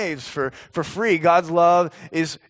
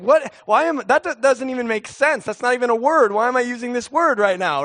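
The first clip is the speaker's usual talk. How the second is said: baffled at himself; 8 semitones higher, faster than usual. Retold or imitated. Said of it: "and it's like".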